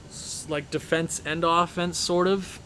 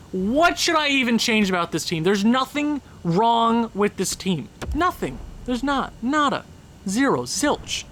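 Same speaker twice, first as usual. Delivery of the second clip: mad rant; 4 semitones higher than usual. Real, not acted. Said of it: "I'm sorry I'm mad".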